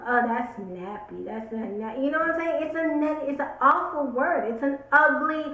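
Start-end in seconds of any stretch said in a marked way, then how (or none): 0.1-2.0 with venom. Retold or imitated. Vlogger mimicking someone saying the word with venom, understated contempt. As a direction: spit it out lightly, imitating scorn. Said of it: "with venom".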